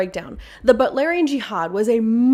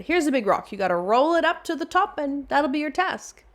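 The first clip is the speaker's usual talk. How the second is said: higher-pitched, lightly acted order; lightly voiced gods; 6 semitones higher than usual. Gods setting Sisyphus his task, lightly voiced. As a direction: hand out a chore in a raised voice.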